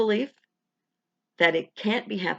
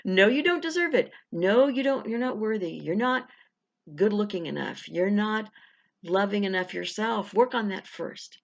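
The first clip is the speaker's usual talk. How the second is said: naysaying puppet. Acted. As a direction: scold like a little puppet in the back of the head. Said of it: "A little puppet back there going".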